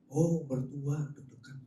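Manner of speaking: slow, dry punchline; deadpan reveal. Pretend. Preacher reveals the in-law joke to the church, slow and dry. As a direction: drop the joke slowly and dryly.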